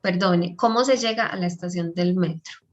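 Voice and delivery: fast, run-together repeat; quick repeat. Shown as a demonstration. Teacher repeats the question for students, fast. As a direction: rattle it off quickly. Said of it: "I changed the place".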